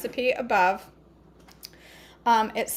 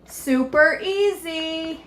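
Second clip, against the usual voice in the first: mock sweet tempting; 5 semitones higher, 3 dB louder, much slower than usual. Mocking her own temptation.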